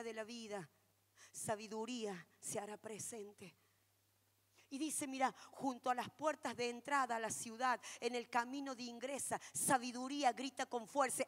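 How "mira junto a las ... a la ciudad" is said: usual speaking voice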